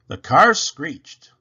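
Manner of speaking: slow, loud narration of the screech; dramatic. A narrator's reading. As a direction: stretch it out loud.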